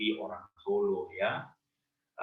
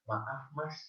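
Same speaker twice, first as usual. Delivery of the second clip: polite Solo man; 2 semitones higher, slower than usual. Retold or imitated. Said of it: "akan bilang begini".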